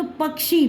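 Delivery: पक्षी with a slight k before sh; teacher sounding out पक्षी as pak-shi; light half-k in पक्षी. Shown as a demonstration. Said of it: "बीच में हमारी हल्की सी किसकी साउंड".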